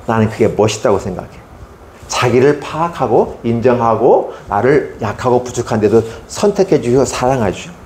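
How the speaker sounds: usual speaking voice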